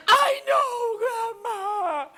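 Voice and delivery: very high, loud mock bawling; crying wail. Child insists to Grandma, in a hammed-up high crying wail. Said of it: "I started crying and crying and crying".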